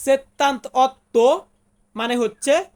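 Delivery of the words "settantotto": slow, syllable by syllable; slow demo. Shown as a demonstration. Teacher sounds out an Italian number for students, slowly. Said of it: "Italian ভাষাতে বলবো".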